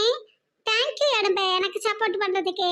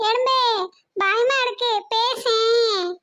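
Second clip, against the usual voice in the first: mock frightened whimper, pitched up; pretend scared crying; 2 semitones higher, slower than usual. Child begs her frozen father to speak, mock-crying. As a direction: fake a scared little sob, begging him to talk.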